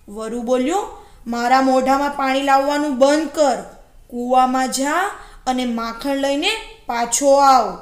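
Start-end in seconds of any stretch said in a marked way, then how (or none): 1.3-7.8 loud, impatient wolf voice; bossy storybook wolf; commanding wolf. Acted. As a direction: order the jackal about loudly and firmly. Wolf orders jackal into the well.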